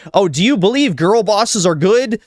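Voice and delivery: high, sneering mock of a scolding progressive; mocking the other side in a high, sarcastic put-on voice. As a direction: squeak it out like a preachy scold. Mocking an imagined opponent.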